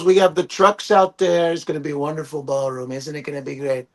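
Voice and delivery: a mild mock of the president's bragging; imitating Trump. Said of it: "He goes".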